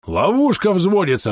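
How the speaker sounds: high, drawn-out urgent warning; growled warning. A narrator's reading. Bom warns the party the trap is arming, growling. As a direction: growl out the alarm, stretching it slowly. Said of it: "рыкнул Бом".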